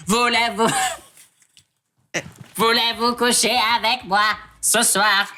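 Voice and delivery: slow, high squeaky helium singing. Acted. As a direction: sing it like a chipmunk. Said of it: "il faut aspirer, ça change la voix". (chant lent et aigu à l'hélium)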